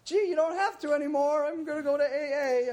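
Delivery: a gleeful high brush-off to his mom; smug dodge. Retold or imitated. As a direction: brush off the intervention with a chirpy win. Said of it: "I go like".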